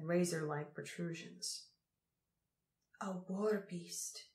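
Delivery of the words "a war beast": awed. A narrator's reading. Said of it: "said Mila in awe".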